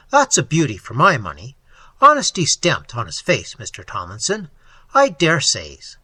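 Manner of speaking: lightly voiced officer, loud and folksy; a hint of a hearty, rustic lawman; chatty police officer. Officer praising a ruddy horseman to Tomlinson, lightly voiced hearty lawman.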